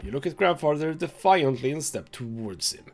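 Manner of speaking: measured dramatic storyteller reading; story narration. A narrator's reading. Game player reading the story aloud, dramatic narration. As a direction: read it out like a grim tale.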